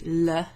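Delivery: LE as a plain L plus short uh; hard L sound. Shown as a demonstration. Teacher showing how double L isn't pronounced, L sound. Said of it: "you don't pronounce it normally".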